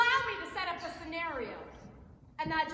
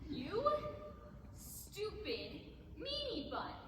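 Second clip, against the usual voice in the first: slow, softer, laughing put-down; insult through a laugh; 9 dB quieter, much slower than usual. Acted. Salesman insulting Williamson, cracking up mid-insult. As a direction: try to sneer but crack up.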